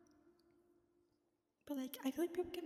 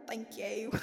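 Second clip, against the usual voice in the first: attempted British accent; 3 semitones lower, 3 dB louder than usual. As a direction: try a hammed-up British accent. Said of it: "should I read it in an accent".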